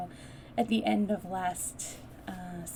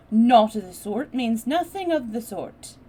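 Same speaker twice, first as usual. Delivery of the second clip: slow and careful; 4 semitones higher, 14 dB louder than usual. Acted. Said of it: "slowly and carefully".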